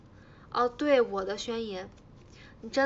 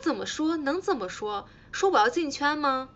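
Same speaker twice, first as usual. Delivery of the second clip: louder, higher indignant comeback; retold angry retort; 4 semitones higher, 4 dB louder than usual. To staff asking her campaign line, mock angry retort. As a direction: snap it back like an annoyed trainee. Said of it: "我就很生气".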